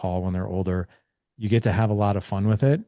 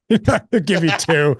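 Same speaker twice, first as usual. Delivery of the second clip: mock teen grudging; 8 semitones higher, 6 dB louder, slower than usual. Joking about son's short answers.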